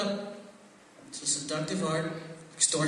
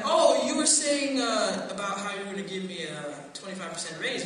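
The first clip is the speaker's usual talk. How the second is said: innocent act; 4 dB louder than usual. Retold or imitated. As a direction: play innocent to trap the boss. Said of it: "I'm like".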